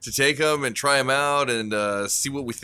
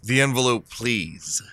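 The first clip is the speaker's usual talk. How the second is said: Great Karnak. Acted. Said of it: "the Great Karnak".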